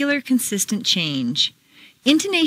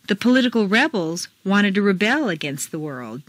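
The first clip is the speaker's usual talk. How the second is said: "rebels" as REBels, "rebel" as reBEL; contrasting word stress. Shown as a demonstration. Teacher reads exercise, contrasting REBels with reBEL. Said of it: "Mark the intonation".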